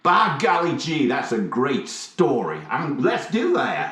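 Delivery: lightly voiced gee-whiz kid; a hint of folksy Southern drawl; wholesome 1950s kid. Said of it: "You've changed".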